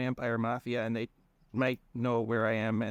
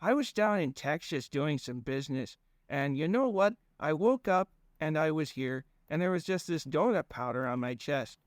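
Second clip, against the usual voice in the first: put-on high, folksy rambling accent; goofy drawling accent; 4 semitones higher than usual. Fang explaining himself to Conrad in a goofy accent. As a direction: ramble on in a dopey regional accent. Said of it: "he was doing an accent".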